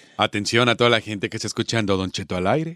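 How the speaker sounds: very deep, sexy, seductive tone. Inviting radio listeners to call in, in a sexy voice. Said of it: "Ya hiciste la voz más sexy".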